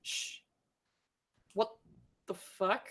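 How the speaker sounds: soft library shush; library whisper. Acted. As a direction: hush it like a librarian. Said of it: "read that little inscription out loud".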